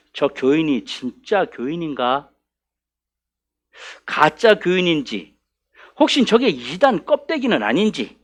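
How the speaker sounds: slow, hushed suspicion of a newcomer; suspicious wondering. Acted. Church members eyeing a newcomer, suspicious. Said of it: "의심하게 되었다는 거예요".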